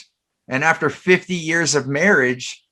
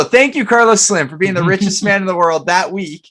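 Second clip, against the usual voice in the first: mock grateful shout-out; 4 semitones higher than usual. Mock thanks to a tycoon.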